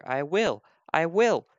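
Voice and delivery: acted storybook determination; determined baby bird. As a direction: build the little bird's resolve. Baby bird insists on finding mother.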